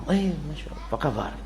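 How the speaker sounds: soft, falsely sweet hello; mock innocent greeting. Debtor greeting his lender on the street, softly feigned innocence. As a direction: play the debtor pretending nothing is owed.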